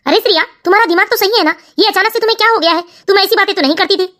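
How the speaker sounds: a son gently pressing his mother; son's voice. Acted. Son figure questions wife.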